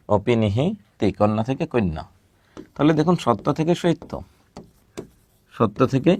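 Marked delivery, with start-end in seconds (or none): 0.1-1.1 slow drawn-out term. Shown as a demonstration. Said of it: "teacher drawls the term".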